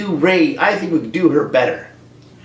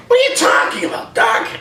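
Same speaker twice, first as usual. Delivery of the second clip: confused Marty; 10 semitones higher than usual. Acted. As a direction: yell it like a baffled teenager. Marty answers Doc in skit.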